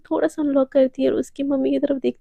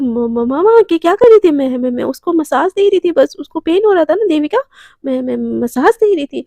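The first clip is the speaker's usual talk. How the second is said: louder, stumbling over words; flustered stammering excuse; 5 dB louder than usual. Acted.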